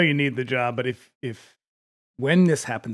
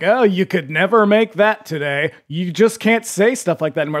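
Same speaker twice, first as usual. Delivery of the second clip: mocking complainer; 3 semitones higher, 5 dB louder than usual. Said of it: "when people are like".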